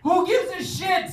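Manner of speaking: high, slow comic shout; mock outrage. Comic asks the crowd in a high, slow mock outraged shout. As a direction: drag out the outrage.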